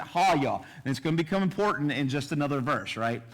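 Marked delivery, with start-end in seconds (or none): 0.0-0.6 "ha-ya" with open ah vowels, stress on HA; correct Hebrew pronunciation. Shown as a demonstration. Teacher repeating the Hebrew word for the class, "ha-ya". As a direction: model "ha-ya" once more, slowly. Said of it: "It's how you pronounce it".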